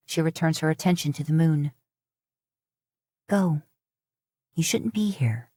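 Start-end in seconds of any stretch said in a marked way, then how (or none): 3.3-5.5 whispered urging to leave; hushed warning. Acted. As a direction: whisper him away, urgently. Mila warns him off.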